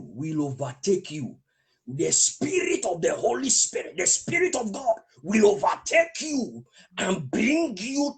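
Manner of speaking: slow, building preacher declaration; fervent declaration. Real, not acted. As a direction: proclaim it slowly, rising in force. Preacher declares over listeners.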